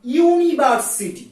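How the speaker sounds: ইউনিভার্সিটি drawn out slowly, syllable by syllable; slow sounding-out. Shown as a demonstration. Teacher tests the article for university, sounding it out slowly. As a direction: say the word very slowly so its first sound is clear.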